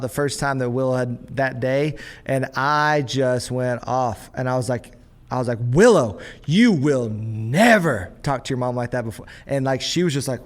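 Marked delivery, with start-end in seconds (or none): 5.6-9.3 loud, firm scolding of a daughter; stern outburst. Retold or imitated. Dad scolding daughter for sassing her mom, loud and stern. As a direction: lay down the law to Willow. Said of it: "I went crazy".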